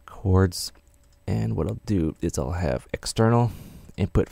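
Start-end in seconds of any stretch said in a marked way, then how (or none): none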